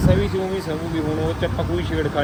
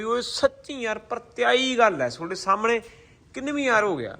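raised voice; 7 semitones higher than usual. Real, not acted. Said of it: "ਥੋੜ੍ਹਾ ਜਿਹਾ ਜ਼ਿਆਦਾ ਉੱਚੀ ਬੋਲ ਰਿਹਾ ਸੀ".

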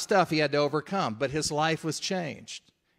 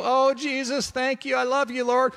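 high, lifted mock praise voice; hammed-up worshipper crying out to the Lord; imitating fervent worship; 9 semitones higher, 3 dB louder than usual. Pastor imitating Ron worshipping in the front row, high and fervent. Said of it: "he'd be worshiping Jesus".

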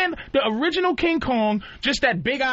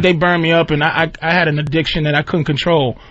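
mock sorry Freddy; 10 semitones lower, 6 dB louder than usual. Freddy pleading his sad backstory, low and mopey. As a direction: lower mopey confession.

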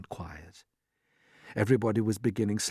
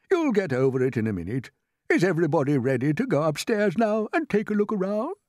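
rising, rallying voice; old green grasshopper; 8 semitones higher, 4 dB louder than usual. A narrator's reading. Grasshopper gathering the company, high and rousing. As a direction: lift it high to rally everyone.

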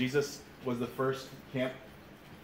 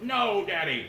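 put-on higher, mildly yelled toddler refusal; yelling three-year-old; 4 semitones higher, slower than usual. Three-year-old to dad walking into the house, mock yell. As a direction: imitate a small child's protest, slightly raised. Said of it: "being yelled at by a three-year-old".

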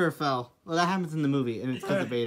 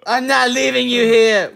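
anguished shouting; 3 semitones higher, 5 dB louder than usual. Acted. Acted heroic grief.

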